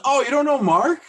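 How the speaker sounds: high, loud incredulous question; can't believe you don't know him; surprised. Retold or imitated. Bar guy amazed the fan doesn't know Mark.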